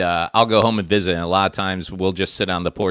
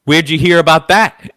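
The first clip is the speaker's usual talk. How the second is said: higher, louder dad snapping at his son; dad at dinner, angrily; mock angry dad; 8 semitones higher, 8 dB louder than usual. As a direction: bark it like a riled father.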